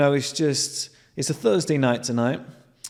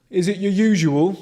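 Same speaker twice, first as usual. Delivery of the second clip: bored barman; 6 semitones higher, 5 dB louder than usual. Retold or imitated.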